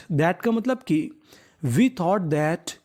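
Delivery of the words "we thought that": drawn-out, very slow English words; slow dictation. Shown as a demonstration. Teacher building the sentence for pupils, very slow. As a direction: stretch each word for the class.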